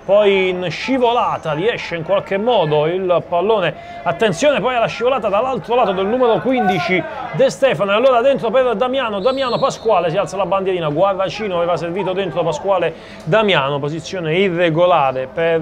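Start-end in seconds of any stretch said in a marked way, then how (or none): 4.0-10.1 quickening, higher as the attack builds; rising excitement. Real, not acted. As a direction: build toward a possible goal. Chance building in the box.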